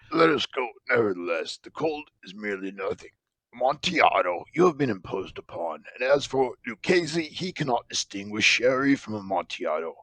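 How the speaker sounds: put-on eager, slurred drunken insistence; insistent tipsy Fortunato. Drunken Fortunato insisting on the vaults, eager. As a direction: brush off the cold and push on.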